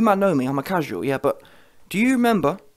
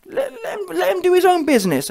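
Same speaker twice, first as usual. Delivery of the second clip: high-pitched outburst; 11 semitones higher, faster than usual. Real, not acted.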